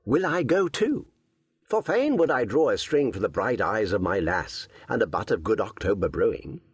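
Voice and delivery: put-on bright, eager young hero; young Robin voice. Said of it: "quoth Robin".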